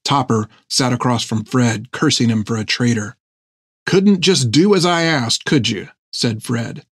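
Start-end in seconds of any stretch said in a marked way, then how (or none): 3.8-5.9 lightly voiced seaman, mildly reproachful; scolding sailor. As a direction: chide a shipmate, starting high and falling. Narrator voices Fred scolding.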